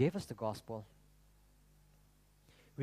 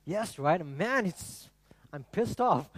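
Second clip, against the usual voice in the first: higher-pitched, hammed-up indignation; mock fury; 5 semitones higher, slower than usual. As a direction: play up being cross for laughs. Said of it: "I'm furious with King Belshazzar".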